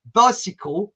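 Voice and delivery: "bicycle" in an imitated Rhodesian accent. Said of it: "two words that would trigger it off".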